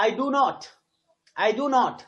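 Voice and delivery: "not" stressed and held slightly. Shown as a demonstration. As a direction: lean on the word "not". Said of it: "not पे focus कर रहे हैं".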